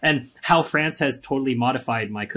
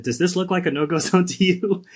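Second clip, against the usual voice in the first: higher-pitched incredulous retort, half laughing; incredulous challenge; 7 semitones higher, 4 dB louder than usual. Retold or imitated. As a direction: retell it as a pointed rhetorical question, pitched up. Acted quote challenging parents' belief.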